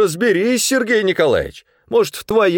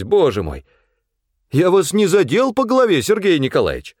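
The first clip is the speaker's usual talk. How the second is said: man held by hunters jeering at the manager; defiant rant; 5 semitones higher than usual. A narrator's reading. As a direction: rant and jeer while held.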